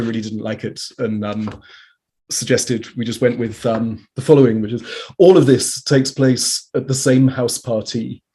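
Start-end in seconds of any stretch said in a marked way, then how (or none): 5.2-8.2 louder, measured literary reading; projected recital of a written text; reading aloud. Acted. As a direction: read it out firmly to an audience. Reads out book's introduction.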